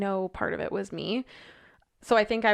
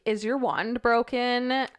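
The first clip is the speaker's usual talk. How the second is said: put-on childish question; 3 semitones higher, 3 dB louder, slower than usual. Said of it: "I was like".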